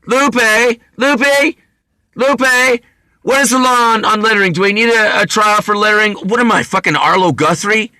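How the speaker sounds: high, loud mock yell calling out a name; imitating yelling. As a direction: holler across the house like calling the maid. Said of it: "was yelling what my mom used to yell".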